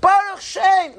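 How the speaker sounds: loud, very high call; not whispering. Shown as a demonstration. Rabbi showing students the line said without whispering, loud call. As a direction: belt it out high instead of whispering. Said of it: "What are you whispering for?".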